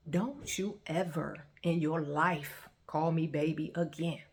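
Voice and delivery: slow, controlled, measured warning; calm rage. Retold or imitated. Telling him never to call her baby, calm rage. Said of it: "but it's a calm rage".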